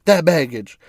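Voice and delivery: Instagram coach impression. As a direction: channel a sassy influencer pep talk. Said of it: "she's like".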